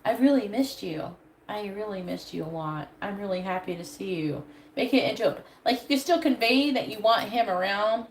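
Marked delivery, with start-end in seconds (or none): 0.0-4.4 sweet and sincere. Shown as a demonstration. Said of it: "Just be like".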